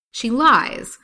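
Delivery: high, loud accusation; crying out. A narrator's reading. The accused pair denying Lily's story, crying out. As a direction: cry it out in protest. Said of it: "cried Haidee and Peter simultaneously".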